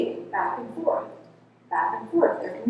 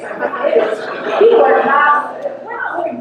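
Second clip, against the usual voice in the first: laughing; 6 semitones higher, 8 dB louder than usual. Real, not acted. Laughs at clients' mascara.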